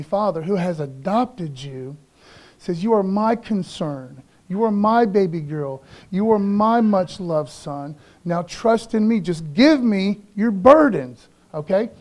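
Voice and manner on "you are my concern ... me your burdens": tender voice of God. Acted.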